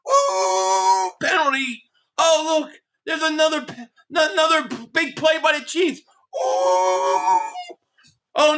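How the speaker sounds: sarcastic mock commentary. Mock ref-bias play-by-play.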